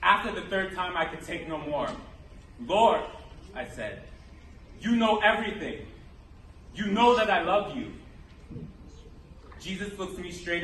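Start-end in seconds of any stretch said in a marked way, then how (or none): 2.6-3.0 loud, exasperated appeal; pleading outburst. Acted. Peter can take no more questioning, loud plea. Peter, at breaking point, answers Jesus. 4.8-7.9 insistent, raised-voice plea; impassioned pleading. Acted. Peter tells Jesus of his love, pleading insistently.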